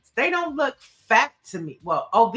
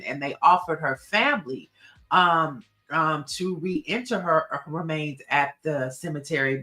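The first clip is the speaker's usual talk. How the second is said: lower, measured presenter read; settled, low-pitched explainer voice; informative fact reading; 7 semitones lower than usual. Real, not acted. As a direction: read out a history fact, composed. Reads out her black fact.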